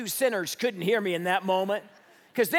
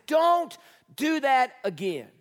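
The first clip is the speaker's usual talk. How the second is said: slow, higher-pitched dad's warning; stern warning; 4 semitones higher, slower than usual. Retold or imitated. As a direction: spell it out firmly for the kids. Dad scolds his kids again.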